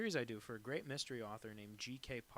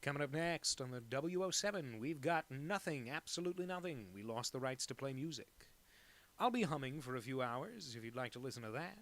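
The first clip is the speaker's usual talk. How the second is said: mock radio DJ.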